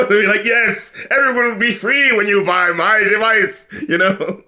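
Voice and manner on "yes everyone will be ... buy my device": villain pitch. Retold or imitated. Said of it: "sounds like the villain about to put you into the mind control thing".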